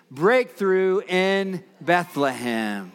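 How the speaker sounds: put-on slow, drawn-out chant for kids; broad singsong kids theatre. Shown as a demonstration. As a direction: lead the children in a slow chant. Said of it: "So kids, can you say it with me?".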